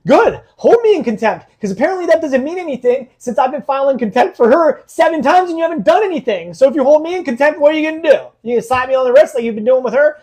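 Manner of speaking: high, loud, heated rant; angry yelling. Retold or imitated. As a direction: re-enact flipping out at a judge. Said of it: "some screaming and yelling after that".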